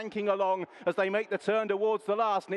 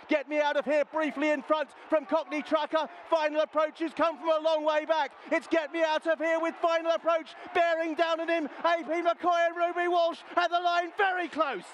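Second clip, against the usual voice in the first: excited finish call; 5 semitones higher than usual. Real, not acted. Commentator calling a close finish, excited and rising. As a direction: voice climbs higher as the horses close in. Tight finish called live.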